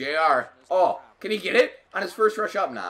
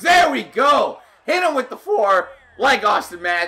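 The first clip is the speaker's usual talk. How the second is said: excited cheer, voice breaking very high; 8 semitones higher, 7 dB louder than usual. Playing an ea hockey game and scoring with matthews, voice cracking. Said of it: "Ignore that voice crack".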